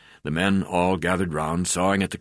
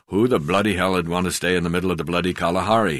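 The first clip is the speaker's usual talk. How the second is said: ordinary delivery, nothing marked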